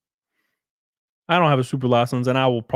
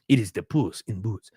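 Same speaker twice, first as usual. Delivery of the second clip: put-on Hispanic-accented voice, a little lower; weird Hispanic accent; 3 semitones lower than usual. Shown as a demonstration. Imitating a friend's accent for the viewers, weird Hispanic voice. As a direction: slip into a joking Hispanic accent. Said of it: "I always do this, like, weird Hispanic voice".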